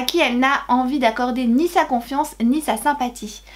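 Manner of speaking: measured book-summary reading; blurb read-aloud. Real, not acted. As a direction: read the back cover to viewers.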